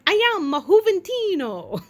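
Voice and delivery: high, loud proud introduction; mock proud coworker greeting; imitating coworker. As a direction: announce your name with grand pride. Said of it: "walk up to us like this".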